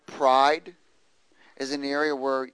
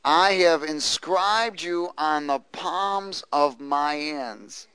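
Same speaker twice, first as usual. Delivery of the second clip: each word slow and a little louder; slow unison reading; 4 dB louder, slower than usual. Shown as a demonstration. Preacher reading aloud together with the congregation, slow and deliberate. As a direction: lead the room word by word. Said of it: "Would you read that with me?".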